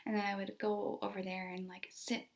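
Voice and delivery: hushed, unvoiced narration; softly whispered retelling. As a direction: drop to a whisper as if near the child. Teacher quietly approaching upset child.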